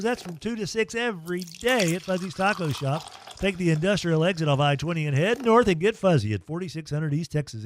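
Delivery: lightly lifted sponsor-read delivery; radio ad read. Real, not acted. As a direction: sell the sponsor to radio listeners. Reads sponsor spots.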